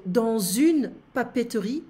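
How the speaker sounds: dans une papeterie said slowly and carefully; slow first take. Shown as a demonstration. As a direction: spell out dans une papeterie word by word, unhurried. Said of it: "we need to say it fast in French".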